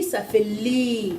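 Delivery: very slow, drawn-out la; la sounded out slowly; slow syllable demo. Shown as a demonstration. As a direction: stretch ça fait la for a child. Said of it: "Le I".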